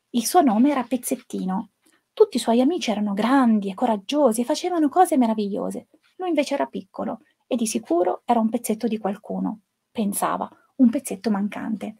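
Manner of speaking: storybook narration for an audience of educators; story reading. A narrator's reading. Teacher reading Pezzettino to trainee educators, storybook narration. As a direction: read the tale gently, as to children. Teacher reads picture book aloud.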